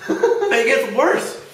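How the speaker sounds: drawn out through laughter; slow laughing. Real, not acted. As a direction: laugh it out slowly.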